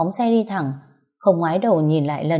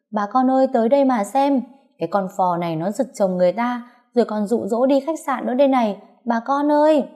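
rally the street against her rival; shouting to crowd; 5 semitones higher than usual. Acted. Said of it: "rồi hét lớn".

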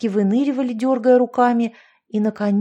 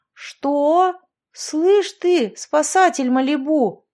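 high, loud furious snap; angry bark; 6 semitones higher, 4 dB louder, much slower than usual. A narrator's reading. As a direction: bark at him in fury. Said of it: "рявкнула Яшка".

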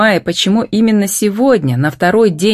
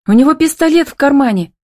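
much higher, urgent warning cry; alarmed cry; 10 semitones higher, 3 dB louder than usual. A narrator's reading. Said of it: "вскрикнула Милочка". (испуганный вскрик, высоко)

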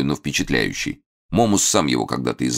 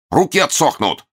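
mock evil villain; 7 semitones higher, 5 dB louder than usual. Hermit terrifying Eropkin.

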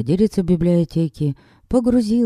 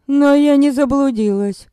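high, loud and pointed; 9 semitones higher, 3 dB louder than usual. Acted. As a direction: say it loud for the house to hear. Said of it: "как можно громче сказала я".

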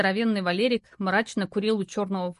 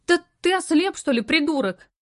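higher, louder insult; angry yell; 7 semitones higher, 4 dB louder than usual. A narrator's reading. Lara yelling at a stranger who hit her, angry. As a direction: lash out at the careless guy.

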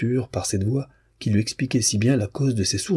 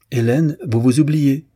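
loud, high, drawn-out reproach; indignant cry; 6 semitones higher, 5 dB louder than usual. A narrator's reading. Demian stung by the slight to the princess, crying out. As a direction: cry out in protest, slowly. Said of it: "s'écria Demian".

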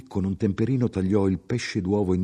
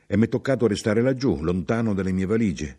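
raised, quick, eager explanation; higher, louder, hurried chatter; chatty, contented traveller, explaining; 3 semitones higher, 3 dB louder than usual. Acted. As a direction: explain yourself busily to a fellow passenger. Traveller continues his explanation.

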